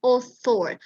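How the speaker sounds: "Author" with th, "oθor"; correct th. Shown as a demonstration. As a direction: say "Author" with the tongue between the teeth. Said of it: "karena bunyinya". ("Author" dengan bunyi th)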